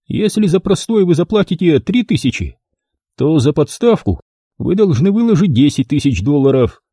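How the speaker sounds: a lightly voiced shady photographer. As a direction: play the dealer selling his offer. Photographer names his price.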